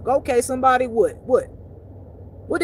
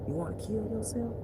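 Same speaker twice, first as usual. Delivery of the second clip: ordinary delivery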